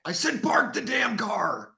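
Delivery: slow, high mock Boston yell; Boston shout. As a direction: bellow it like an angry Bostonian. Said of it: "talk like you're from Boston".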